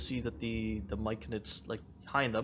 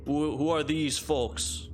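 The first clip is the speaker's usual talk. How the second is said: Myconid voice; 4 semitones higher, 6 dB louder, slower than usual. Acted.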